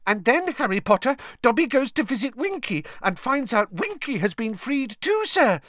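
high, thrilled elf squeak; delighted elf voice. A narrator's reading. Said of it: "said Dobby delightedly".

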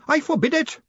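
high-pitched outraged outburst; screaming. A narrator's reading. Furious man forbidding the reading, screaming. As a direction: forbid it at the top of your pitch. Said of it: "screamed Grinium".

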